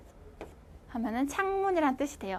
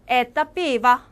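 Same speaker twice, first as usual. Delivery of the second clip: 에떠 삐바 slower and louder for repetition; slow loud model; 6 dB louder, slower than usual. Shown as a demonstration. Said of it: "똑같이 따라해주세요".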